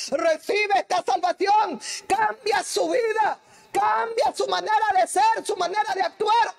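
altar call exhortation. Acted. Preacher calling listeners to receive salvation, shouted plea. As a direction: plead with them to change their lives.

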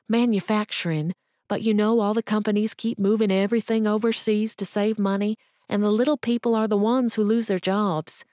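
pleading mother. Acted. Jobless mother begging the cashier for work, pleading. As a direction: beg the cashier for any work, lightly pleading. Woman explains lost work.

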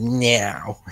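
now with a slight American accent; little American accent. Shown as a demonstration. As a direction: put on a touch of American accent. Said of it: "With the little American accent".

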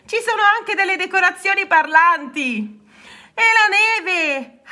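high, thrilled little voice; excited marvelling. A narrator's reading. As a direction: squeal with delight at each discovery. Rana marvels at birds and snow.

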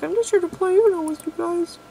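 high sweet robot voice; cute robot voice. Retold or imitated. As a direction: play an innocent little robot. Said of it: "He's like".

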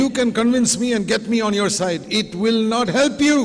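high, loud insistence; loud warning. Acted. Preacher warning the church not to lean on him, loud and high. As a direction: hammer the warning home.

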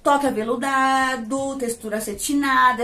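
slow, deliberate reading of the product claims; reading the label. Shown as a demonstration. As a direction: read each promise off the box. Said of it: "vamos ver se ele tem todas essas promessas".

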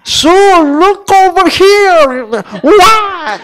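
high, loud sing-song call to the little sister. Retold or imitated. Older sister calling to her little sister, high and loud. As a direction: call her name to make her turn. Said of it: "얘를 불러서".

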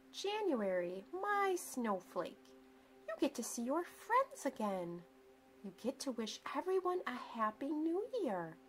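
lightly voiced mom, sweet and coaxing; a hint of a fond mother. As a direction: gently wheedle a sleepy child out of bed. Mom coaxing January awake.

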